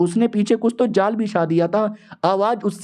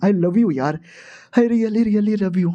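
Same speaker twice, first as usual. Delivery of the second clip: very slow, drawn-out love you; dreamy declaration stretched out; tender confession; much slower than usual. Acted. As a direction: linger on each word, lovestruck.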